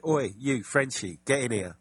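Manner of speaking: loud mock Cockney shout, calling out; Cockney accent. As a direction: bark it like a London geezer, half-joking. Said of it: "in their best Cockney accent".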